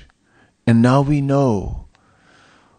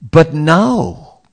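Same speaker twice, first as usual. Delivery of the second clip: higher, louder, slow rhetorical questions; retelling Kirtanananda; 5 semitones higher, 4 dB louder, slower than usual. Retold or imitated. Sannyasi speaking to devotees while they wait, slow and raised. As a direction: let each question ring out slowly. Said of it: "And Kirtanananda said".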